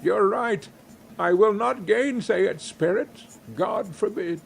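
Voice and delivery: earnest cry. A narrator's reading. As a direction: insist with rising feeling. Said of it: "cried Scrooge".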